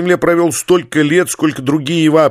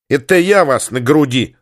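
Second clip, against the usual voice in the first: spat out. Acted. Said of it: "сплюнула Зинка".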